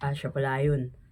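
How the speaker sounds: put-on bigger, manlier voice, pushed very low. Asked to make the voice bigger, trying a deeper, bigger voice. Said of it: "Lakihan mo lang... Lalakihan mo bang gano'n? ... pastigin mo lang".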